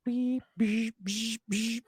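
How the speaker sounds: high electronic beeping; robot beeps. Shown as a demonstration. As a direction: beep like a subtle robot. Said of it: "robot beeping noise".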